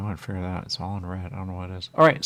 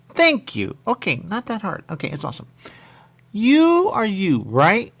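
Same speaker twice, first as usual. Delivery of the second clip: high loud mock voice; 10 semitones higher, 7 dB louder than usual. Voicing character dialogue.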